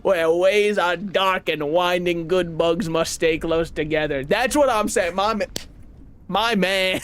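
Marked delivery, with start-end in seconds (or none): 0.0-4.2 put-on mild made-up European accent for the flea leader; a gentle foreign caravan leader, unhurried; fake European accent. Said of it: "that accent ... inspiration was somewhat European".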